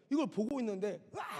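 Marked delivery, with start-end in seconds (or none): 1.1-1.4 sudden mimicked shriek; brief mock cry; imitated scream. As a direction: act out a possessed scream. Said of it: "갑자기 들어누워서 막 소리를 지르시는 거예요".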